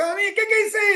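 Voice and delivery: curious viewer question. Retold or imitated. Viewer asks the coach about the post, high and surprised. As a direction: mimic a viewer puzzled by the post. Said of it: "eu te falo assim".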